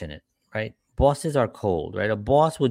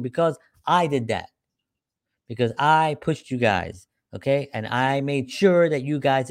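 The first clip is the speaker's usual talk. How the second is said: lightly voiced boss, a bit raised; mildly pompous boss speech; self-crediting boss; 3 semitones higher than usual. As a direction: take all the credit, leaning on I. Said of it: "a boss is like".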